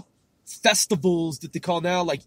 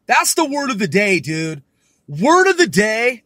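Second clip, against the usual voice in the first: mock announcer; 3 semitones higher, 8 dB louder than usual. Mock announcing word of day.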